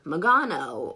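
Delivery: "Magano" drawn out in three syllables; "Magano" as a slow, wrong reading of the name; mispronounced name. Shown as a demonstration. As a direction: say "Magano" slowly, with an extra vowel after the M. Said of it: "everyone mispronounced it".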